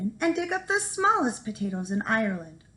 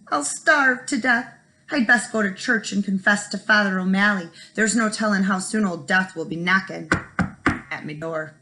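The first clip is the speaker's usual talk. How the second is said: wailing; 5 dB louder than usual. Acted. Jamie fears starving and wails about death, hammed-up wailing. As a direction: lament like doom is near. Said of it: "wailed Jamie".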